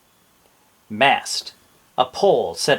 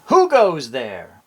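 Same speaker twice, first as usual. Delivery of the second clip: pirate challenge; 4 dB louder, slower than usual. Shown as a demonstration. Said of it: "A pirate's way of saying".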